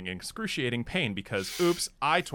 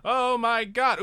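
mock despair; 5 semitones higher, 3 dB louder than usual. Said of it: "I'm like".

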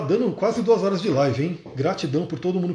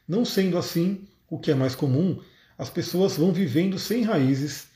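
reading aloud. Acted. Reads the zen book aloud.

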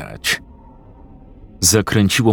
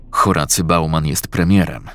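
usual speaking voice

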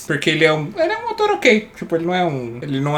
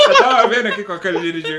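laughing explanation; 3 semitones higher than usual. Real, not acted. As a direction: explain your slip while cracking up. Laughs at own mistaken title. (explicando às gargalhadas)

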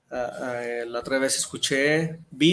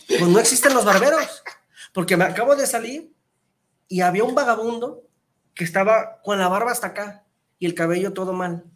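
higher, louder, laughing argument; laughing insistence; 4 semitones higher, 5 dB louder than usual. Retold or imitated. Customer insists to barber, laughing and louder.

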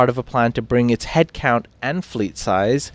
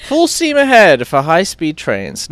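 slow, loud, punchy headline; announcing headline; 6 semitones higher, 9 dB louder, slower than usual. Acted. Host opening the train segment, booming headline read.

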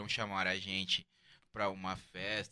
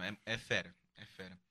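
trailing off; 4 semitones lower, 6 dB quieter than usual. Real, not acted. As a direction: voice fading away mid-thought. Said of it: "E agora eu perdi o que eu ia falar". (perdendo o fio, a voz sumindo)

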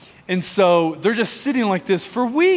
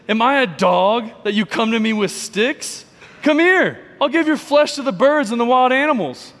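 mild mock giant taunt; 4 semitones higher than usual.

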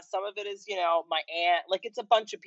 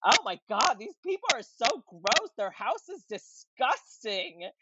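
gossiping ghost; 4 semitones higher than usual. Retold or imitated. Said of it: "someone was a ghost that was just like".

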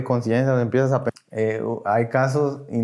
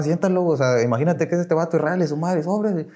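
higher, lightly acted egging-on; retold sponsor goading; 5 semitones higher than usual. Padrino urging him to curse out his resentment, lightly goading. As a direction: imitate goading someone to let rip, without shouting. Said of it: "no te decían".

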